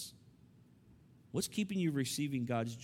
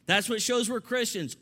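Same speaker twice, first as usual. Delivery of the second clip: loud, raised preachy insistence; hammering on; 7 semitones higher, 6 dB louder than usual. Retold or imitated. Preacher imitating how Christians push the commandment to love, hammering. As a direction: hammer each demand home, high and forceful. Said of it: "And we hammer on".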